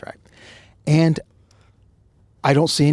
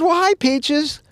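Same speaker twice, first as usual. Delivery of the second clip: flirty greeting; 14 semitones higher, slower than usual. Retold or imitated. Cop flirting back in story.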